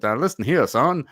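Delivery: put-on a blustery old Southern board member scolding in a thick Southern accent; Southern drawl. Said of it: "heavy Southern accent".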